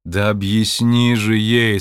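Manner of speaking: slow, emphatic urging; insistent demand. Acted. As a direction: press her, word by word. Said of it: "сказал Джо". (настойчиво, с нажимом)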